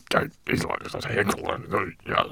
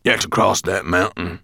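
portentous; 8 dB louder than usual. Acted. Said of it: "replied Gravelbeard portentously".

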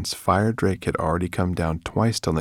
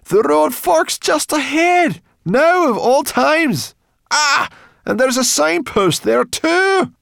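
very high, drawn-out shouting; frantic, loud lament; exasperated groaning; 9 dB louder, slower than usual. A narrator's reading. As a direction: wail the bad news loudly. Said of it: "Sorrel groaned".

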